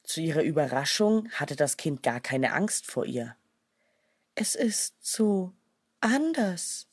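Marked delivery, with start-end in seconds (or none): 4.4-6.9 higher, slow and tender; she-wolf gently amazed by the child. A narrator's reading. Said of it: "leckte ihm zärtlich".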